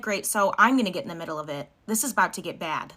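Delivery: mildly defiant, back down in your own pitch; lightly acted comeback, determined to step in; defiant retort. Girlfriend answering her boyfriend's refusal, mildly defiant retort. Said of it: "And I'm like".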